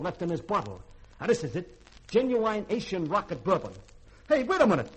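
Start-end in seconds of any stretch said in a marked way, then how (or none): 4.3-4.9 high, loud outraged yelling at the thieving robot; angry yelling. Acted. Cook yelling at the robot who drank his bourbon, angry. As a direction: blow up at him, spitting mad.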